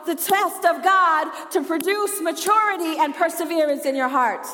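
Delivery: full-force preaching. Real, not acted. Preacher to those still going through storms, full-force preaching.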